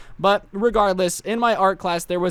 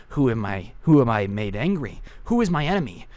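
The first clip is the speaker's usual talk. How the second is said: dramatic anime monologue. Retold or imitated. Mock shaking dramatic anime monologue.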